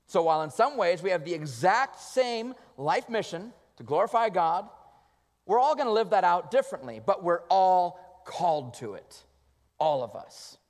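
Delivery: loud, rising sermon climax; preaching at full force. Acted. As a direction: drive it home to the congregation. Preaching build.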